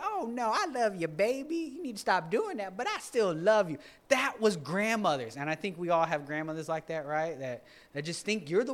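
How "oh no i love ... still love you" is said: doting grandmother. Retold or imitated. Grandmother defending her wayward grandchild, high doting voice. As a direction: coo over the grandchild like a loving grandma. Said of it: "my grandmother that would, that'd be like".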